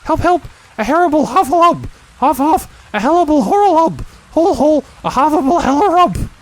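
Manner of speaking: high, loud squeals, words tumbling; tiny pig shrieking garbled monster names; terrified jumbled cries. Acted. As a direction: scream while fleeing and mixing up the words. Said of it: "still crying out, "Help, help!".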